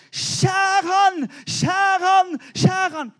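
high, loud repeated yell; cook shouting. Retold or imitated. Cook shouting in the restaurant, high and loud. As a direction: bellow it like a panicked cook in the kitchen.

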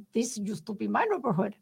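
a badly faked German accent, barely shifted; lightly voiced old German immigrant with a clumsy accent; terrible German accent. Old German resident claims the neighborhood, bad German accent. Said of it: "That was a terrible German accent".

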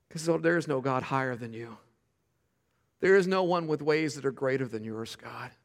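low, soft words of worship; reverent prayer. Real, not acted. Pastor shows the church how to worship, reverent prayer. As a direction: speak softly to God in adoration.

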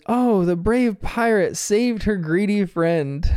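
slow, playful storybook telling; storyteller mum. Retold or imitated. Mum narrating the kids' pirate game, slow storybook voice. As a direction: narrate the game like a fairy tale. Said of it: "Chili narrates ... says".

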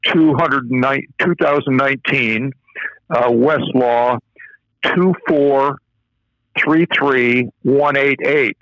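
slow, clear citation for note-taking; dictating. Shown as a demonstration. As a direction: read the numbers out slowly. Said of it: "for those of your listeners who have a pen or pencil available".

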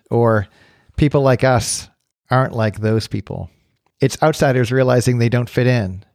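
measured, scripted narrator read; podcast introduction. Acted. Host setting up today's conversation on belonging, scripted introduction. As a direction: read it as a thoughtful show opener, with pauses between phrases.

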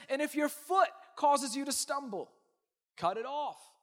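shouted, ringing scripture line; booming preacher delivery; emphatic command. Acted. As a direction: proclaim it loud to the room.

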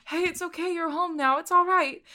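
high-pitched, acted soothing of a pet; whispered assurances. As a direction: reassure in a small high character voice. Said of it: "whispering assurances to Blueberry".

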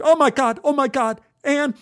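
high, frantic repeated calls; overwhelmed, high-pitched exclaiming; screaming. A narrator's reading. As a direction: cry out her name over and over. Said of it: "I screamed".

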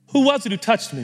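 high, light, searching appeal; eager, pleading Jesus. Acted. Jesus searching for whoever touched him, pleading eagerly. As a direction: ask it high and imploring, with pauses between. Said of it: "this is how I hear the tone of Jesus".

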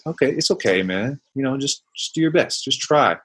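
calm yourself down like a trusted grandparent; compassionate self-talk. Retold or imitated. A loving mentor soothing a player in a slump, gently. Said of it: "it would be loving. It'd be compassionate".

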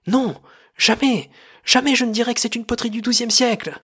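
high, loud theatrical outburst; furious shouted refusal. Acted. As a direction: refuse at the top of your voice. Director's furious refusal at quarrel's peak.

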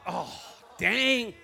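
amused oh dang with a laugh; chuckling realization; caught out, laughing. Retold or imitated. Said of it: "I'm like".

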